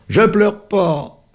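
high loud slow cry of denial; hurt boy refusing to admit he cries; tearful denial. Acted. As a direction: shout it through the tears. Crying boy denies crying.

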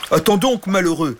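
amused dragon protest. Acted. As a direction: halt the flood of tears. Dragon stops the tears.

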